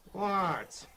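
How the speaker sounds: high dummy question; puppet voice. Acted. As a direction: pipe up as the puppet. Puppet answers.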